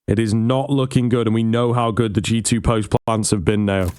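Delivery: live play-by-play commentary; esports caster. Real, not acted. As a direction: call the action as it happens.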